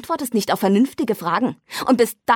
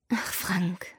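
pitying; 10 dB quieter than usual. Acted. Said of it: "als ob sie Mitleid mit ihm hätte".

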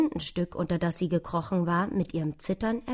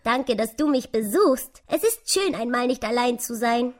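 higher, lively, smiling thanks; lächelndes Eichhörnchen; 6 semitones higher, 5 dB louder than usual. A narrator's reading. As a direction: thank the mouse with a smile in the voice. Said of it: "Das Eichhörnchen lächelte". (lächelnd und dankbar, höhere Stimme)

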